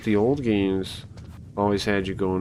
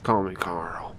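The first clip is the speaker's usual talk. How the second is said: lightly voiced stern soldier; Snake voice; 2 semitones lower, 5 dB quieter, slower than usual. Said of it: "I don't know if I could do a snake voice".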